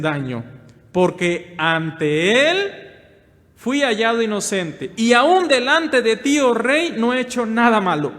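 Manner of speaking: Daniel answering the king. Acted. Preacher voicing Daniel to the king, loud and solemn. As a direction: lift it up as Daniel honouring the king. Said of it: "Daniel respondió al rey".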